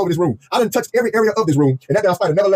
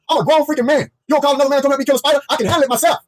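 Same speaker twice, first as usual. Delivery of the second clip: high, wounded-pride mock rant; indignant protest; 6 semitones higher than usual. Husband scolding wife for calling another man, acted indignation. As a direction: act out an offended husband's comeback.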